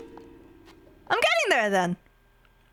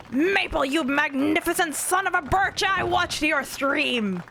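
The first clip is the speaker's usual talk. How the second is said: a bit higher, slow general's bark; Patton impression; 3 semitones higher, slower than usual. Streamer reading chat, mock Patton growling at Maple. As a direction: play the proud general gloating over a rival. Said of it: "How would I do a Patton impression?".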